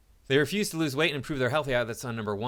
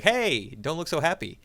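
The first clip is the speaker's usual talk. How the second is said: teasing call-out; 5 semitones higher, 4 dB louder than usual. Retold or imitated. Teasing an angry woman at gym.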